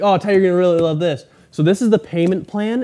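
imitating the salesman. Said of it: "he'd be like".

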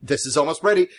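lightly eager, quick agreement; a touch of a restless, eager boat builder; bundle of energy. Acted. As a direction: brush them off brightly while stalling. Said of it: "he is just nothing but a bundle of energy".

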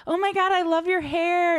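high, bright fake compliment; gushing girl. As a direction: gush over her hair. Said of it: "was like".

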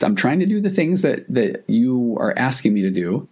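mildly acted bewilderment, voice lifting high then easing; retold confusion. Wife retelling her efforts to please him, mildly confused. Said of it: "she's back to confused".

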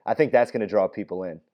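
half-hearted seductive delivery; sexy sultry voice. Pretend. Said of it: "my sexy, sultry voice".

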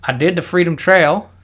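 hammed-up, botched Boston accent; a loud, badly faked Boston accent; mock Boston accent. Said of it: "I don't know why I'm talking like this".

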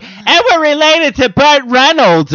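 high, slow, drawn-out mom voice; impression of mom. Comedian mimicking mom after a few, high drawn-out announcement. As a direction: do your tipsy mom announcing big news, high. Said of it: "That's how I do Mom".

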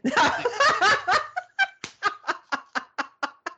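high laugh. Real, not acted. Laugh alone on a line.

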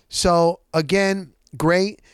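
ordinary delivery

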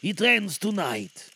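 slow, grave spirit voice; ghost voice. Acted. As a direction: let the doom land slowly. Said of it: "replied the ghost".

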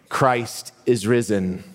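slow Easter proclamation to the church; liturgical call. Real, not acted. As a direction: call it out slowly for the response. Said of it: "And then I'm gonna say".

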